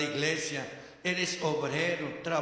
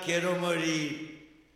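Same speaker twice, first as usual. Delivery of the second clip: despairing plea; much slower than usual. Retold or imitated. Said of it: "Y al final".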